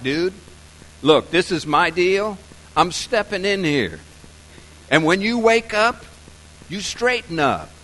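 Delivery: loud, firm, no-nonsense order; commanding. Acted. God stepping in on Joseph's dream, loud and commanding. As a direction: step in and lay down the law. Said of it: "I think commanded sounds like".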